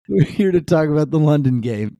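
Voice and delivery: a cheeky cockney-ish try while giggling; mock London accent. Host intro in a mock London accent, laughing. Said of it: "that's my best".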